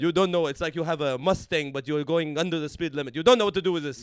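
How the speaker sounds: loud, jokey mock Arab accent. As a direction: boast like a macho uncle. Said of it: "Arab accent".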